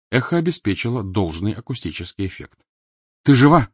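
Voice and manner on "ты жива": breathed out. Acted. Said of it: "выдохнул Ника".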